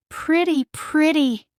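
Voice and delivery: high squeaky delighted mouse; excited mouse. A narrator's reading. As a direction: squeal it like a thrilled little mouse. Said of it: "Gus exclaimed".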